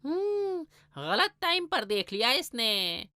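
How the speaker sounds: quiet aside. Acted. Cat caught, mutters aside.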